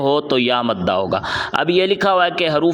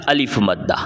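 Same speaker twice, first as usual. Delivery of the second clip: answered low; 6 semitones lower than usual. Shown as a demonstration. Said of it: "کون سا قاعدہ ہو گیا".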